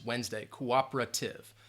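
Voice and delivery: "Wednesday" as WENZ-day, then "cooperative" with a light middle; unstressed syllable reduced. Shown as a demonstration. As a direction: softly show the swallowed syllable in "Wednesday" and "cooperative". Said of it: "You don't hear that N E S".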